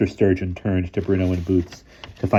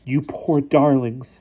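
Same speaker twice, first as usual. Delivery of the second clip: comforting; 7 semitones higher, 3 dB louder, slower than usual. A narrator's reading. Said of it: "she said comfortingly".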